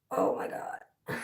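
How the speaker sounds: slow whispered disbelief; slow unvoiced oh my God; awed whisper. Real, not acted. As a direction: whisper it slowly, stunned.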